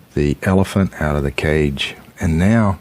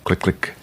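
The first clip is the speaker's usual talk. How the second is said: click sound effect; 5 dB quieter than usual. Pretend. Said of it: "play like I was opening the cage".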